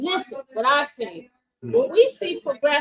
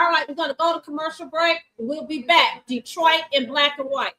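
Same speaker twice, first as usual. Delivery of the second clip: courtroom lawyer. Real, not acted. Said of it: "I'm using my lawyer voice".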